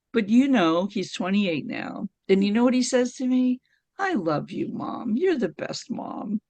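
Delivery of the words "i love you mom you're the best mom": softer, understated fondness; lightly voiced tender praise; affectionate son. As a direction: gently imitate a grown son's affection. Grown son's affectionate words, retold.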